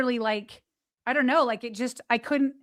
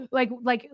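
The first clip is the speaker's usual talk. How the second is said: imitated gasp. Telling the host about suffocating, a mock gasp. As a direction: act out the struggle to breathe. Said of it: "I can hear myself, like, gasping for air".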